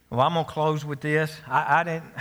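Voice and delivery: winded, catching breath between words. Real, not acted. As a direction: speak short of breath after preaching. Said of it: "I'm out of breath".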